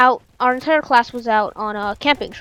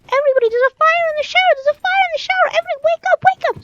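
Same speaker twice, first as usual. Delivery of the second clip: fast, high and loud alarm; high frantic yell; 6 dB louder, faster than usual. Retold or imitated. Boy rushing to wake the camp, fast high yell. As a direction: yell everybody awake, rushing. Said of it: "He's like".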